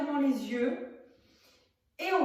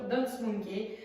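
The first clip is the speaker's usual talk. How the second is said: song title said in a mock English accent, slower; slower than usual. Real, not acted. Teacher naming her warm-up song in mock English accent. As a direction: put on a jokey English accent for the song title. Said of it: "attention pour mon accent hyper, euh, anglais".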